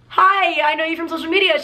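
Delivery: high, quick retold hello; eager greeting. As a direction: act out an excited introduction.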